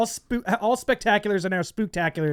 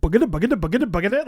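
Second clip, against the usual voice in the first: cartoon running noise; much faster than usual. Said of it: "like, cartoon running noise".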